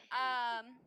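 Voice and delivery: talking with a hair in the mouth; words around a hair in the mouth. Real, not acted. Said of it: "there's a hair in my mouth".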